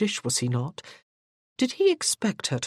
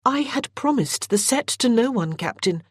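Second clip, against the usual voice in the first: sharp; 7 semitones higher than usual. A narrator's reading. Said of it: "Morgan reminded him sharply".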